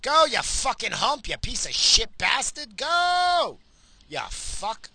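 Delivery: high, loud, drawn-out cursing; angry shouting behind the wheel; road-rage yell. Real, not acted. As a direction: yell abuse at a slow driver. Yelling at another driver.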